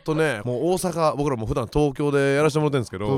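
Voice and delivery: mock Kansai manzai opener; playful fake Kansai patter; Kansai dialect. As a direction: open a manzai act in put-on Kansai. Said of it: "関西弁で、".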